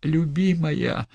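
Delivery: slow, breathless endearment; gasping. Acted. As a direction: gasp it out. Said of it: "задыхался он".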